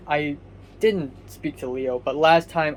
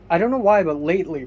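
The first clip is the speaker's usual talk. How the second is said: raspy voice; 3 semitones higher, 6 dB louder, faster than usual. Real, not acted. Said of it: "my voice has been really muffled and raspy".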